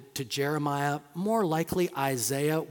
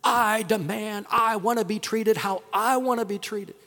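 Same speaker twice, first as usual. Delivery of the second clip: put-on demanding kid; 5 semitones higher than usual. Parent imitating a child demanding, in a mild whine. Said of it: "and they demanded".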